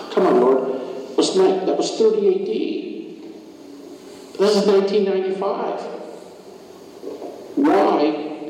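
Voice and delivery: high-pitched, exasperated pleading with God; incredulous protest. Acted.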